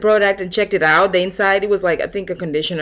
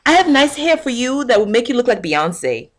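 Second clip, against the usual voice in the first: fake friendly clerk; 5 semitones higher than usual. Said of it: "They say".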